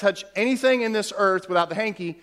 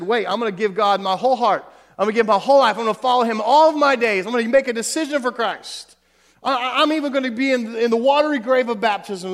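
eager vow; 4 semitones higher, 5 dB louder than usual. Retold or imitated. Voicing a new believer's vow.

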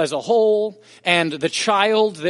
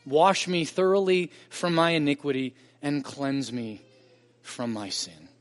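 scripture reading. Acted. Reading the psalm aloud.

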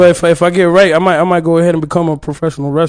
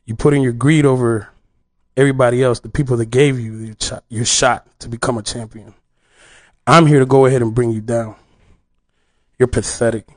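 wrestling promo; 5 semitones lower than usual. Pretend. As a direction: growl a heel's challenge at the champ. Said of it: "cut a promo right now".

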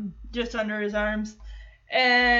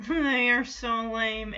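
through clenched teeth; 2 semitones lower, slower than usual. Retold or imitated. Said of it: "says through clenched teeth".

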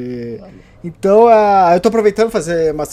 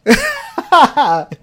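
big laugh, much higher; loud high laugh; 11 semitones higher, 7 dB louder than usual. Real, not acted. Laughs at joke about books.

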